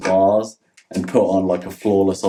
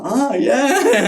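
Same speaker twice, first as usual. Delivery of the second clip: put-on Aussie accent. Imitating Aussies' reaction.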